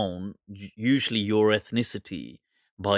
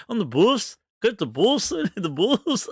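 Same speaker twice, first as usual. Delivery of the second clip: high-pitched mock Black Country accent, laughing through it; exaggerated Black Country twang, pitched well up; 10 semitones higher than usual. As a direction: send up a Black Country accent in a raised, sing-song voice. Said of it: "the black country accent. Oh my God".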